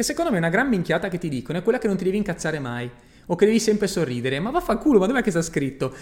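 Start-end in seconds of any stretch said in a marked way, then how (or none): 4.4-5.9 angry outburst. Real, not acted. Angry rejection of advice.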